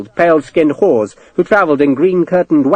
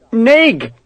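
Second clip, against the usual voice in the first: higher, pleading cry of the name; plaintive; 9 semitones higher than usual. Acted. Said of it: "He offered the name plaintively".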